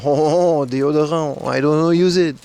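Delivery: imitating a French colleague's accent; light mock French accent, deodorant said the French way. Scene: vlogger imitating his French colleague, mock French accent. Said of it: "He talked like this".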